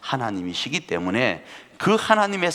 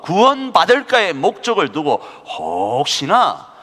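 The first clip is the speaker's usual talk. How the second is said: higher, louder preaching, slowing on key words; fervent preaching; 10 semitones higher, 6 dB louder than usual. Acted. Preacher urging the congregation, in a fervent preaching voice. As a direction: drive God's purpose home from the pulpit.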